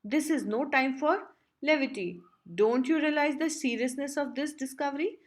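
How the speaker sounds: a touch of alarm, pitch lifting. Acted. Think Tank scolding the crew for laughing, mildly alarmed.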